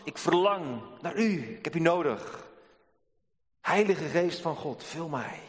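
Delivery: slow, lightly voiced prayer; David's prayer, slow and pleading; earnest prayer. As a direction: pray it slowly as a plea.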